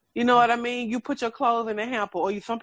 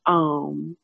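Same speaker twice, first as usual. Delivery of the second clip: lightly voiced father; 5 semitones lower, 4 dB louder than usual. Voicing her father's advice.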